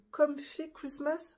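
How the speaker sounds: English title in a French accent; poor English accent. Real, not acted. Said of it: "j'ai un accent anglais, euh, nul".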